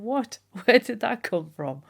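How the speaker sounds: high, incredulous what; baffled. Real, not acted. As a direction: pitch leaps up in disbelief. Baffled at Victorian meaning.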